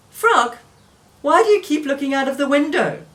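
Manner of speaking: puzzled call. Acted. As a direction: ask it impatiently.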